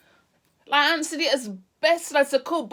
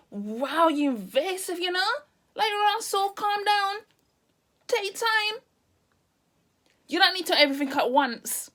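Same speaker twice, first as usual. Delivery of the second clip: exasperated inner thought; 6 semitones higher than usual. Retold or imitated. Inner reaction to the nurse.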